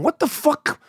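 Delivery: high-pitched mock bewilderment; incredulous. Husband and wife amid the love, incredulous. Couple's reaction retold.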